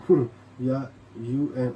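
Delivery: ऊँ drawn out slowly with nasal ring; slow ऊँ demo. Shown as a demonstration. Teacher sounding out ऊँ slowly for students. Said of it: "इसको कहते हैं ऊँ".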